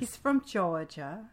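slow, drawn-out Southern "from Georgia"; mock Southern drawl. Insisting to friends Fitz hails from Georgia, in a slow mock Southern drawl. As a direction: lean into the Southern drawl, slowly. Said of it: "he's got that nice Southern drawl".

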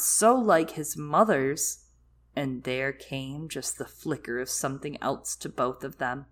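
story narration. A narrator's reading.

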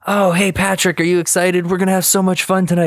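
high, excited cartoon chatter; bubbly high-pitched impersonation, rushing at the end; SpongeBob. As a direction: gush quickly in a squeaky, eager imitation. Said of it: "overhearing SpongeBob talking to Patrick".

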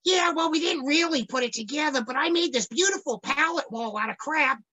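mocking yuppie voice. Mocking yuppie kids quote.

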